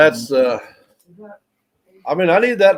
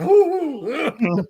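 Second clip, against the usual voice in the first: retold high hoot; 12 semitones higher than usual. Retold wordless reaction to a secret.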